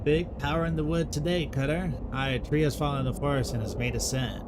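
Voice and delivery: lightly voiced solemn forest folk, old-fashioned speech; a hint of a grave medieval woodcutter questioning trees; archaic woodland dialogue. Voices archaic tree characters in dialogue.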